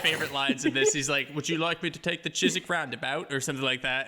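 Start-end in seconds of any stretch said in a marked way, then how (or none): 1.3-3.3 mock British cabbie accent; bad British accent. Imitating the taxi driver asking about the route, clumsy British accent. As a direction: attempt a British accent, badly. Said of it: "sorry if that was a horrible accent".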